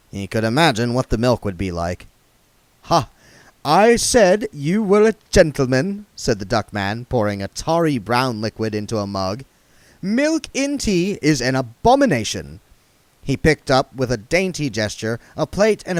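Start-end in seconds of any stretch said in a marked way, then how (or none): 2.8-6.1 high, fussy genteel voice; prissy old vagrant, fussing; duck man voice. A narrator's reading. 10.0-12.6 high, fussy genteel voice; prissy old vagrant, fussing; duck man voice. A narrator's reading.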